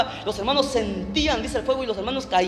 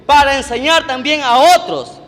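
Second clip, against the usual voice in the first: loud, high, slow proclamation with drawn-out words; forceful scripture reading; 4 semitones higher, 11 dB louder, much slower than usual. Real, not acted. Preacher reading Paul's verse to the congregation, loud, slow proclamation. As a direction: declaim the verse at full force, stretching key words.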